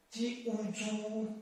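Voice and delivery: "G U Z" ending in a plain oo; wrong pronunciation zu. Shown as a demonstration. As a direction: demonstrate the mistaken "Z" as zu. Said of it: "not zu".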